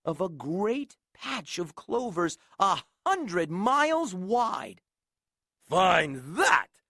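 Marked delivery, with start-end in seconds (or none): 5.6-6.8 loud sneer. Acted. Eagle taunting Horton, loud sneer. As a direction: spit it as a taunt. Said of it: "sneered the bird".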